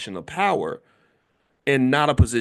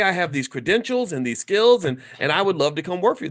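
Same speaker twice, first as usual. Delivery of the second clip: mock eager self-pitch, a bit higher; eager job-seeker; 3 semitones higher than usual. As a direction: sell yourself like at an auction. Mock job-seeker selling himself.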